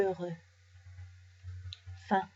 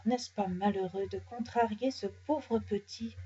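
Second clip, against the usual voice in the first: a lady's soft murmur, much softer; 5 dB quieter than usual. Acted. Passer-by murmurs disapproval of the bear, softly. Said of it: "une dame murmure".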